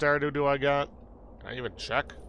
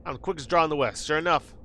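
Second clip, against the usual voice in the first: fast-talking Western gunslinger; boastful Southern cowboy; cowboy drawl. Acted. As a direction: brag like a frontier sharpshooter. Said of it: "talk like that".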